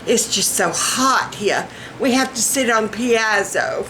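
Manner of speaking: genteel rich Southern hostess; lightly hammed-up rich Southern. Shown as a demonstration. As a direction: invite them in with rich Southern airs. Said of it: "Or rich Southern".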